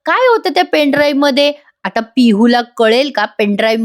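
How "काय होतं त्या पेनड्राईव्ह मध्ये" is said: higher-pitched puzzled thought; lightly acted curious wondering. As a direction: wonder to yourself, pitch lifted. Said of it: "पिहू विचार करते".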